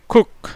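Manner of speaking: குக் said as cook with a short u; model pronunciation. Shown as a demonstration. Teacher shows குக் has a short vowel, clear model. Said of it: "எப்படி மாறிடுது?".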